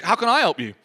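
quick, casual throwaway offer; offhand question. Retold or imitated. Preacher retelling Elisha's reply, quick and offhand. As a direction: rattle it off without sympathy. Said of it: "I'd have thought he'd be really compassionate".

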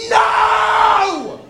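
high, loud cry of no; defiant shout. Retold or imitated. Preacher urging the crowd, with a high, loud, defiant no. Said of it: "just go".

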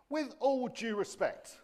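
laughing, slow and high; amused. Real, not acted. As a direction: savour the phrase with a chuckle. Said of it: "if you've not heard this one before".

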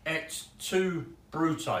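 best Latin accent. Shown as a demonstration. Preacher giving quiz listeners a clue, in a mild Latin accent. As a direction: read it in a hint of a Latin accent. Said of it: "read in my best Latin accent".

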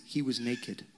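low, soft, offhand claim; hushed repeated gossip. Retold or imitated. Preacher quoting what people say about David dancing, hushed. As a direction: drop it low and quiet. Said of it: "we say these things".

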